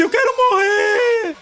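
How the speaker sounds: high, drawn-out mock wail. Mocking the believer's tearful threat to God, high and wailing. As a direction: wail it like a sulking child. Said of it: "porque você disse".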